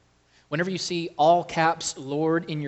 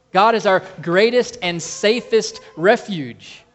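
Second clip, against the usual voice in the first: rousing proclamation; 5 semitones higher, 7 dB louder than usual. Real, not acted. Preacher rouses the congregation.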